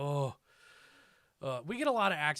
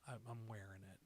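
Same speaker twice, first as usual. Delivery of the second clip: put-on softer, small nervous kid voice; shy kid; 4 semitones lower, 14 dB quieter than usual. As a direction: mumble it like an awestruck ten-year-old fan. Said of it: "I'm like".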